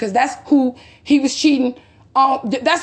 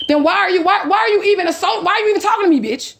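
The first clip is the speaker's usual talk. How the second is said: retold angry demand; 6 semitones higher than usual. Retold argument, confronting the woman.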